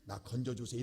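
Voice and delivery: low, subdued, overly proper prayer; softly measured mock-formal plea to God; mock polite prayer. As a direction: imitate someone praying with too much dignity. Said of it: "이렇게 한다고요?".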